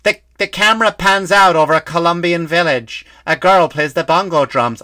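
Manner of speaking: put-on audio-description voice; imitated audio describer. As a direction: announce each image like a describer. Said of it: "all I can hear is like".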